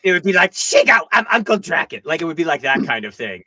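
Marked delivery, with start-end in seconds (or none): 0.5-2.0 high, loud cartoon villain voice; hammy villain boast; Drakken impression. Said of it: "the worst John DiMaggio Draken impression".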